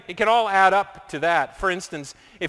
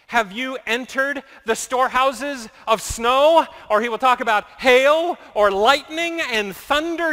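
challenging God; 5 semitones higher than usual. Acted. God's challenging questions voiced.

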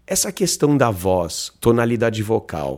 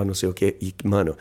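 ordinary talk, nothing marked

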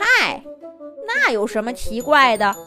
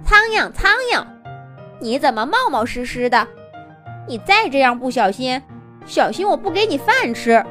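displeased; 2 semitones higher than usual. Acted. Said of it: "不满地说".

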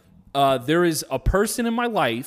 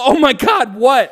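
mock eager; 7 semitones higher, 6 dB louder than usual. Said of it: "I don't wanna go".

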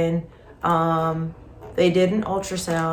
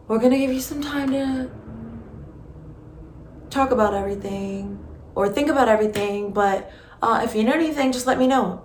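gentle nurse; 5 semitones higher than usual. Retold or imitated. Nurse offers time to grieve, higher and gentle. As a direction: ease her out of the room kindly. Nurse comforting after bad news.

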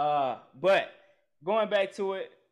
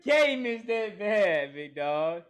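disbelieving shout; 4 dB louder, slower than usual. Real, not acted. Host shouting at his friend over a bad Olympic pick, slow and loud. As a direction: shout it slowly, stunned.

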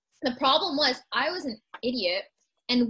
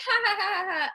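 mock laughter; 7 semitones higher, faster than usual. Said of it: "she's like".

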